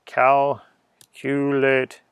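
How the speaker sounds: stretched out very slowly. Pretend. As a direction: draw the word out like a grand incantation. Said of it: "You have to say it in that voice".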